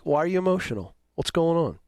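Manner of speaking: normal talking voice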